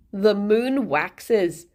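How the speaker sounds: put-on slow, vague Scottish-or-Irish accent; Luna. Game character taunts you after a kill, vague Irish accent. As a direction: put on an American actress's shaky stab at an Irish accent. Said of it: "an actual impersonation of how the character sounds".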